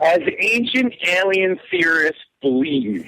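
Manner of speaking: very slow, word-by-word prompt; drawn-out model reading; demonstrating the phrase. Shown as a demonstration. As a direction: dictate it slowly for the other person to copy. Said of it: "what am I supposed to say?".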